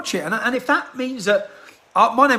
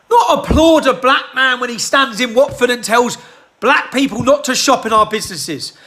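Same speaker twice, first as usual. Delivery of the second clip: raised, indignant shout; angry shout; 5 dB louder than usual. Real, not acted. Ranting to camera, shouting in outrage. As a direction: belt it out in outrage. Angry rant against protesters.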